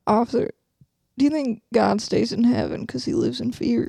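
put-on Southern lady voice; mock-philosophical Southern accent; Southern belle accent. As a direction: question the officer like a Southern belle. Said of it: "You're not a Southern Belle".

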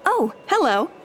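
a light, scripted shop-clerk chirp; robotic sales clerk. Pretend. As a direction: recite the pitch like a looping game character. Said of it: "She's like a robot".

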